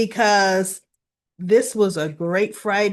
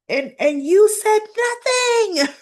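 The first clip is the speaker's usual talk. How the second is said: high, louder accusation; accusing; 12 semitones higher, 6 dB louder than usual. Retold or imitated. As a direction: throw it in her face. Willow accuses Nina.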